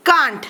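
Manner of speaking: Can't said as one syllable, the t clipped; pronounce can't. Shown as a demonstration. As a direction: say Can't in a single beat, not cannot. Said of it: "അത് നമ്മൾ എങ്ങനെ pronounce ചെയ്യും?". (Can't ഒറ്റ അക്ഷരമായി പറയുക)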